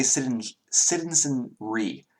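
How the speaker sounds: "citizenry" slowly, in his Southern accent; character's pronunciation. Shown as a demonstration. Game master trying his character's word, "citizenry" drawn out slowly. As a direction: sound out "citizenry" syllable by syllable. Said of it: "he would say".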